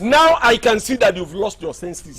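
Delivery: drawn-out, shouted rebuke; slow angry shout. Acted. Villager shouting slowly at a man who insulted him.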